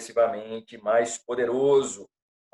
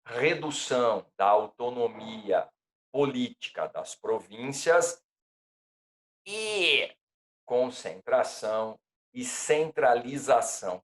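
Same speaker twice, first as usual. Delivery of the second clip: dictating; 3 dB quieter than usual. Shown as a demonstration. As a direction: read it out for students to copy. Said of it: "Eu repito".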